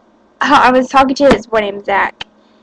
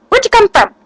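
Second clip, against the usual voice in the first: startled question; 10 semitones higher than usual. Retold or imitated. Friend startled when she bursts into the room. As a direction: mimic her friend jumping in surprise. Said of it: "she was like".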